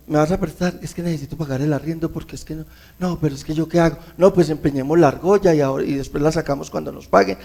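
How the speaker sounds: soft, fast, anxious muttering about the rent; worried fretting. Pretend. Man short on rent pleads and frets to his wife, in a soft fast anxious mutter. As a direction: fret under your breath, hurrying through the money worries. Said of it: "estoy reaccionando conforme a mi preocupación".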